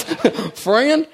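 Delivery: lightly mocking a radio preacher's accent, slow start; hammed-up preacher accent poking fun; a touch of a mock preacher drawl. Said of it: "I'm making fun of somebody with an accent".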